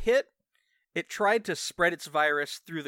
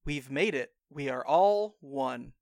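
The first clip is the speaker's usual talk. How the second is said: deadpan; 2 semitones lower, slower than usual. Acted. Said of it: "says in a deadpan voice".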